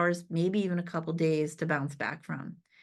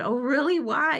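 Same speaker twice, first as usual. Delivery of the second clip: surprised; 5 semitones higher, 4 dB louder than usual. Retold or imitated. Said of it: "and I said".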